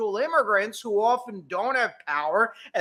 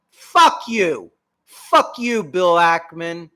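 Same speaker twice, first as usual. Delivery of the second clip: angry outburst; 5 dB louder, slower than usual. Real, not acted. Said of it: "I get emotional about this shit".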